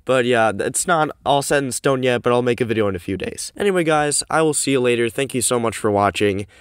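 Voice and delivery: recorded in a cramped closet; boxy, echoey room sound; echoey closet recording. Real, not acted. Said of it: "sorry if it's a little bit echoey".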